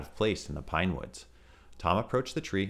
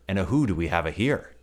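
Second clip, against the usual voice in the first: bouncy tiger voice; 6 dB louder than usual. Acted.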